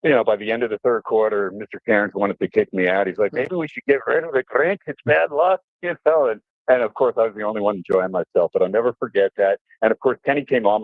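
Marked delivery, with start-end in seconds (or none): 3.3-6.3 grumbling dad. Retold or imitated. Dad wants to kick him out.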